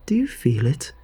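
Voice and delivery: lightly voiced aunt, fervent and coaxing; entranced aunt. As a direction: coax them like a devoted believer in her creation.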